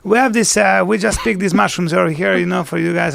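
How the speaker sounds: a hammed-up French accent for the Tuscan mushroom pickers; imitating a French accent. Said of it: "why do they have French accents in Tuscany?".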